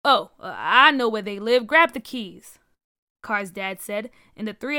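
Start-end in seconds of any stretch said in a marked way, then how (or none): 0.0-2.6 urgent. A narrator's reading. Dad urgently deciding to go.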